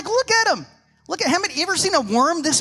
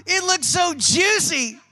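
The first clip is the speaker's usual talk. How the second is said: fast, amazed, half-shouted gush; a fish losing it over the biggest worm ever; mock awe, slowing down on so juicy; excited fish; 3 semitones higher than usual. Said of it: "And he's like".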